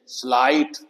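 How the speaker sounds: स्लाइट with an "eye" vowel, rising at the end; long-i demo. Shown as a demonstration. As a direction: model स्लाइट with the "ai" glide. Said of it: "आई की आवाज आती है". (स्लाइट में "आइ" की आवाज़)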